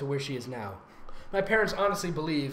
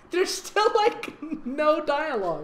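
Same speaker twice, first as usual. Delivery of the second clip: whiny complaint; 5 semitones higher than usual. Real, not acted. Host complaining to co-host about the story, high whine. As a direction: whine about the lack of dialogue.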